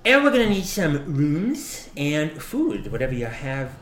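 gruff customer voice. Acted. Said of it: "He goes".

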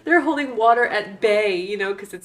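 punchline with a laugh; brash vaudeville comic. Pretend. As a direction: sell the pun like a stand-up. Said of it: "I'll be here all week".

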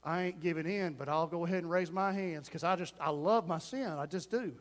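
low, soft confiding aside; private inner voice. Acted. Sinner at the altar raising hands, quiet private admission. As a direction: voice a secret thought under cover. Acted secret thought at the altar.

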